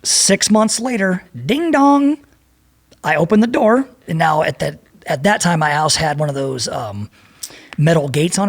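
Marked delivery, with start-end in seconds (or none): 1.4-2.2 high sung doorbell; doorbell ding dong. Retold or imitated. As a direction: chime it like a doorbell. Doorbell imitation.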